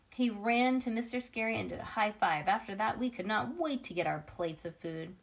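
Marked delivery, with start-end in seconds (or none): none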